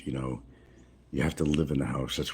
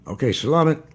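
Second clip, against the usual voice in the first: higher and louder thanks in a put-on Filipino accent; 10 semitones higher, 6 dB louder than usual. Thanking the shopkeeper in a higher, louder put-on Filipino accent. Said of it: "gotta put the Filipino accent on".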